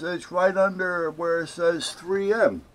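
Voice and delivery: high, drawn-out mock insistence; insistent clerk. Clerk insists to caller on where number is, mock insistent. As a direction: imitate a clerk insisting, pitched well up.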